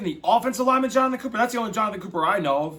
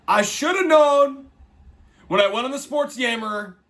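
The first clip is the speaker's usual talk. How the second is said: exasperated; 5 semitones higher, 3 dB louder than usual. Real, not acted. Self-reproach over lost pick.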